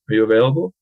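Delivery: AVAILABLE lifting at the end; testing a yes-no question, AVAILABLE going up; rising intonation. Shown as a demonstration. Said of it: "Maybe it goes up a little bit".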